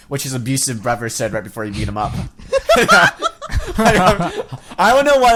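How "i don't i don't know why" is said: laughing through the words, a bit louder; cracking up while trying to talk; real laughter. Real, not acted. Laughing at the absurd scene.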